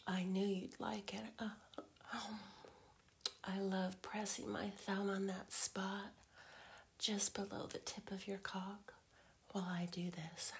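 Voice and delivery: intimate teasing whisper. Acted.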